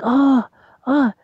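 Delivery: put-on very high, slow, wavering old-lady voice; high granny voice in awe and mild fright; old grandmother voice. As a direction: squeak it out like an amazed granny afraid to fall. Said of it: "I'm like".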